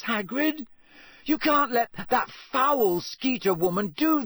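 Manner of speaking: loud, high furious shouting; angry shouting. A narrator's reading. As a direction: pound the door and yell. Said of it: "Hermione shouted".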